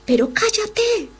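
high, slow, irritated shushing; annoyed hush. Retold or imitated. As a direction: apostles telling the beggar to shut up. Apostles hushing the shouting man.

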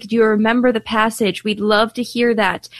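usual speaking voice

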